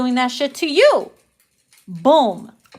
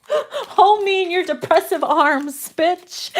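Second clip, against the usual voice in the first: laughing mock plea; 5 semitones higher, slower than usual. Real, not acted. Mock-romantic line, laughing.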